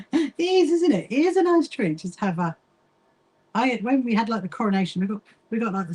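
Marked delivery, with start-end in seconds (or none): 0.1-2.0 laughing through the words, higher; laughing agreement. Real, not acted. Agreeing with a friend that tea is a treat, laughing. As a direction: giggle it out agreeing.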